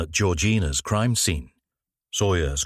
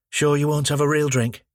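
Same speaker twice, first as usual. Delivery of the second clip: offering wine; 7 semitones higher than usual. Acted.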